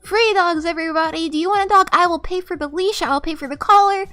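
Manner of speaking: loud hawker's cry offering dogs; mock street-vendor yelling; calling out free dogs. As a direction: shout it to the street, begging someone to take them. Calling out to homeless people.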